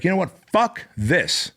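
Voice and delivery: rallying himself against the crisis; fed-up outburst. Retold or imitated. Boss recalling the pandemic hit, fired-up defiance. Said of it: "I was like".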